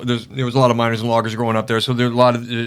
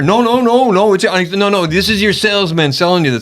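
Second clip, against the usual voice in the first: emphatic protest; 3 semitones higher than usual. Retold or imitated. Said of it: "And I'm like".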